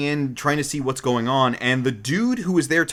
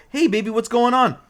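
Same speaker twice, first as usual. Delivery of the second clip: high, breezy mock flirt; casual flirt; 9 semitones higher than usual.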